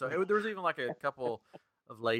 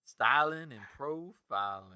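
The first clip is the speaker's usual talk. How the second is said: slow swaggering catchphrase; wrestling promo; 5 dB quieter, slower than usual. Pretend. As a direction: strut through it slowly. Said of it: "Cut a promo?".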